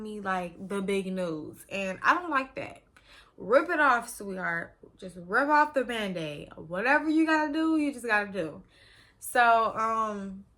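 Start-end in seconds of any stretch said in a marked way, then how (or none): 3.4-8.6 loud, pushy insistence; just tell me straight, loud and firm; rip-off-the-Band-Aid urging; emphatic demand. Retold or imitated. Imagined order to nurse.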